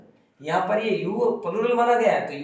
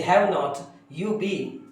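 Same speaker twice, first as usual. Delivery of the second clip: slow dictation; much slower than usual. Shown as a demonstration. Teacher dictating the sentence.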